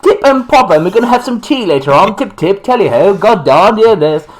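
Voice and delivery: high, quick, bad British accent; Americans' hammed-up take on British English; mock British accent. Host imitates Americans attempting British, exaggerated British accent. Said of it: "try to do a British accent".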